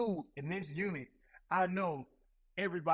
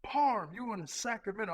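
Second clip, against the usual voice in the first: calling out names; 6 semitones higher than usual. Retold or imitated. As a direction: shout the name across the room.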